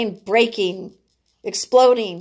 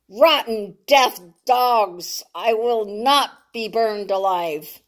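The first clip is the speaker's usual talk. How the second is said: defiant cry; slower than usual. Acted. Rena hurling stones at bombers.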